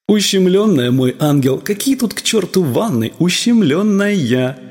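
a hint of a singing demon voice; demonic voice. A narrator's reading. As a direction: taunt like a little demon, stretching the last word. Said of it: "Демонским голосом пел страх".

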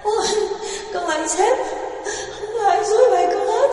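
very high, loud hammed-up wail; fake wailing. A narrator's reading. Loan hams up a wailing denial for the officers. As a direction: cry out a staged denial.

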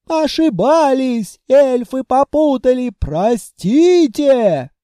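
loud, drawn-out, high howl; wailing plea. Acted. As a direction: cry out as you're dragged. Lizards begging for forgiveness.

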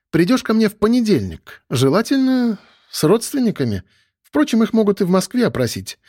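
breezy stern major taking her leave; lightly voiced woman major.

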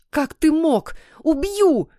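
high-pitched outraged screeching; high, indignant threat; angry screech. A narrator's reading. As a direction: screech it like a furious wife, voice jumping up. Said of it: "заверещала Злата".

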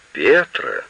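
high, stunned exclamation; gasped. A narrator's reading. Old woman stunned by Petra's familiarity, gasping. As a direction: gasp the name in shock. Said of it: "ахнула окаменевшая старуха".

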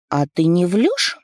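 put-on high, eager child voice; little girl voice. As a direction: ask like a curious little girl. Narrator voices little daughter.

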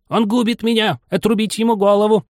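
very high-pitched outraged royal cry; barking Queen. A narrator's reading. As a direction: shriek the execution order as the Queen. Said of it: "королева как вскочит да гаркнет".

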